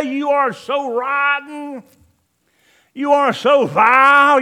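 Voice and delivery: loud, slow scolding of yourself; harsh self-accusing shout. Acted. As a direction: yell at yourself, full of contempt.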